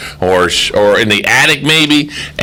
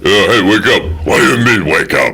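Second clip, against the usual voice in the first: Rambo voice. Retold or imitated. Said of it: "answers himself like Rambo".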